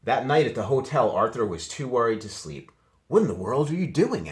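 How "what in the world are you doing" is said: father's voice. A narrator's reading. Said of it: "asked Father".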